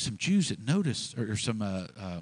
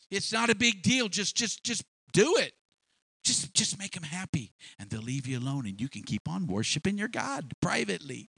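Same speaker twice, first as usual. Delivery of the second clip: higher, hurried pleading to comply; coaxing persuader; 6 semitones higher than usual. Acted. Urging the captives to just bow and be left alone, coaxing. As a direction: talk them round, brushing the whole thing off.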